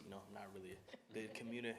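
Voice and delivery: nervous stutter, words catching. Real, not acted. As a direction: stumble over the words. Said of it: "I'm stuttering a lot".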